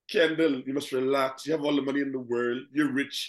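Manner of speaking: loosely faked Bajan accent; amateur Bajan impression, counselling someone to relax; attempted Bajan accent. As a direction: put on a vague Caribbean accent, meant as Bajan. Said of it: "that's your Bajan accent?".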